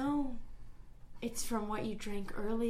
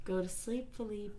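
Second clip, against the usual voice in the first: soft, low hush to sleep; lulling; 4 semitones lower, 6 dB quieter than usual. Acted. Assassin hushing Philippe to sleep, soft and low. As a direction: ease him under gently.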